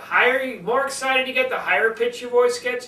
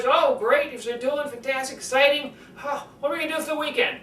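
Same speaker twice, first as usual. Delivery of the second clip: 1 excited; 6 semitones higher than usual. Retold or imitated. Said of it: "you do it in conversations all the time".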